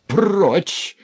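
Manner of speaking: high, loud cry of get away. A narrator's reading. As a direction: shove the word out harder. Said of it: "закричал тогда Князев громче прежнего".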